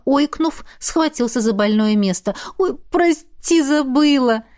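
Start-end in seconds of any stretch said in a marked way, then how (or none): 2.6-4.4 apologetic. Acted. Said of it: "повинилась его напарница".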